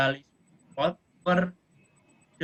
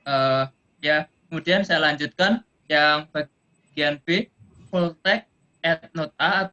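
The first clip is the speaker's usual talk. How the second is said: louder, slower, to be heard; speaking up louder; 5 dB louder, slower than usual. Real, not acted. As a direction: raise your voice for a bad line. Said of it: "bisa saya kencengkan sedikit suara saya".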